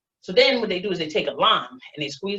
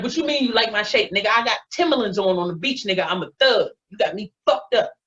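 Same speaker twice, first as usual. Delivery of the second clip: indignant comeback; 3 semitones higher than usual. Retold or imitated. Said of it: "Now I got a motherfucking attitude".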